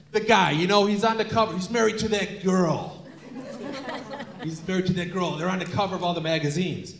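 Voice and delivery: lightly voiced old dad, insistent; a hint of exasperated old man. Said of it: "that's my old voice".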